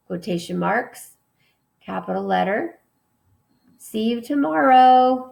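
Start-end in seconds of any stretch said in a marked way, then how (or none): 3.8-5.3 higher and louder, called out; hammed-up goodbye yell; mock yell. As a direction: call it across the playground. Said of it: "So she yelled".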